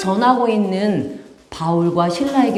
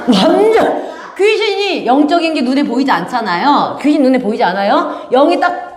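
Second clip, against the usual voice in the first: normal talking voice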